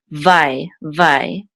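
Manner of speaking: "vai" sounded out twice, the yud silent; syllable demo. Shown as a demonstration. Teacher showing the first syllable, clear pronunciation demo. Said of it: "part of the first syllable".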